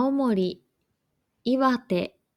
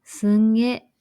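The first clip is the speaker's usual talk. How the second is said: すんげ in a Tohoku accent, louder, nasal n held; 6 dB louder than usual. Shown as a demonstration. Teacher contrasting すごい with Tohoku すんげ. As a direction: punch out すんげ like a Tohoku local. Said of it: "すごい は、".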